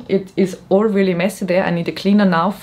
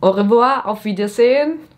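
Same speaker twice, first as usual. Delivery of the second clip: French accent; 3 semitones higher than usual. Real, not acted. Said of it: "Why do I have a French accent".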